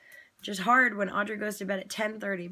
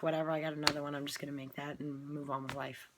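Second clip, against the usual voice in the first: calm shrug; 5 semitones lower, 5 dB quieter than usual. Pretend. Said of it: "Or you can be like".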